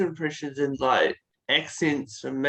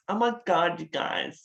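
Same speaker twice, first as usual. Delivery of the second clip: lightly voiced American teenage girl; a hint of American teen-girl talk; typical teenage girl. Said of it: "like, a typical teenage girl".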